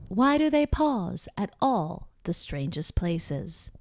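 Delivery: put-on slow old-time reporter, odd pauses. Shown as a demonstration. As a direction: pause in strange places like a newscaster. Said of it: "I also love to do a reporter voice".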